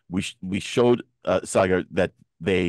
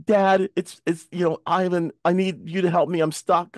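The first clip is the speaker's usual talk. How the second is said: mock scammer as son; 8 semitones higher than usual. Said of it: "and say".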